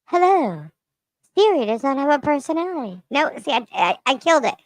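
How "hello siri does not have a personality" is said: robot voice. Shown as a demonstration. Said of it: "the flatline voice like that".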